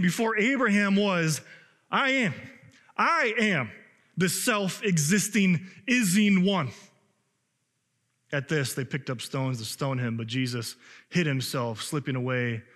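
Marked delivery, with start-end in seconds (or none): 0.0-6.7 rising preaching emphasis. Acted. Preaching climax on I am.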